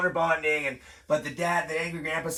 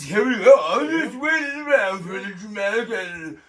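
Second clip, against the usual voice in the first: Stallone; 5 semitones higher, 6 dB louder than usual. Retold or imitated. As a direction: drag it out as a hammed-up movie tough guy.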